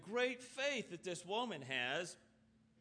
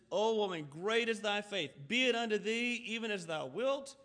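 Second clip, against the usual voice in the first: "O woman, great is thy faith" proclaimed louder in one sweep, no pauses; loud proclamation; 6 dB louder than usual. Acted. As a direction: declare it boldly and straight through. Jesus proclaims, sermon repeat.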